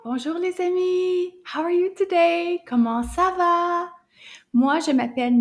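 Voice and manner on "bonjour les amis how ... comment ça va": cheery greeting. Acted. Cheerful teacher greeting children.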